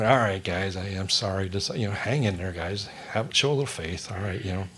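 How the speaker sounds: low, soft, easygoing voice to the guys; lightly acted weary reassurance, kept low; calmly reassuring. Acting out Jesus calming the disciples.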